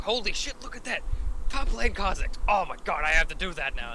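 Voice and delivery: high, hyped fan voice; excited fan. Retold or imitated. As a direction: gush like a starstruck fan. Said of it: "the fans are like".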